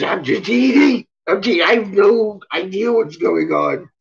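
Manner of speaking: a lightly cartoonish doggy voice; voicing the dog. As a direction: play the happy dog who has no idea what's going on. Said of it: "He says".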